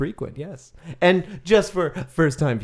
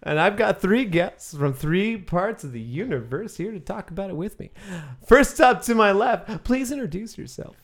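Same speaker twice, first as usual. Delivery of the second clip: show host. Acted. Plays magic show host.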